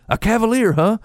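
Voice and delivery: high, exaggerated amazed take; mock surprise. Man imitating himself amazed at God's odd answer, mock surprise. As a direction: play up the wide-eyed shock.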